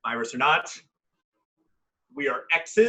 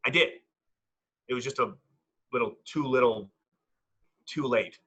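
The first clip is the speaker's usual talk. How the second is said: low, rueful admission; 5 semitones lower than usual. Acted. Admitting it came too late to the ex, rueful. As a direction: own up regretfully in a lowered pitch.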